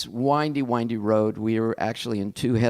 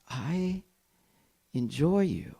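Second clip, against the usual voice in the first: musing inner voice; 6 dB quieter, slower than usual. Retold or imitated. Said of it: "and I thought".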